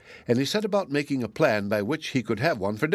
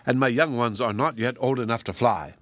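frantic magpie imploring the fox; pleading screech. Acted. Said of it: "the magpie screeched loudly and exclaimed".

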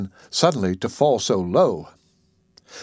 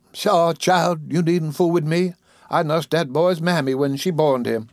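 a hint of a raised, scolding old auntie; old Southern woman; 4 semitones higher, slower than usual. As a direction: brush him off like a fond old nanny. Old Dicey scolds bailiff.

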